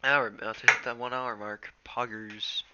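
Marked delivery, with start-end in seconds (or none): 1.8-2.6 soft whispered cheer. Real, not acted. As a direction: whisper it to yourself. Whispered aside.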